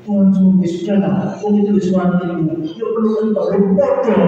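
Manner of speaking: wife's reply. Retold or imitated. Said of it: "Ya, doa di Tuhan".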